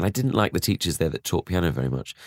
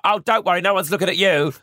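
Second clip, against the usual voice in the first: much higher and a bit louder, mock-soothing parent; reassuring parents; 10 semitones higher, 3 dB louder than usual. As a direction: imitate parents brushing off his worry, pitched up high. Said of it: "my parents would be like".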